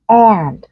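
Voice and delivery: AND with a tense, nasalized a, half a half e; căng, hơi mũi. Shown as a demonstration. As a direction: say AND with the vowel pulled tight toward e. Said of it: "nó bị nửa nọ nửa kia". (AND âm a căng, hơi mũi)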